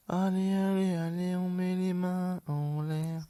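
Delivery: high, slow hands-up order; mock cop voice.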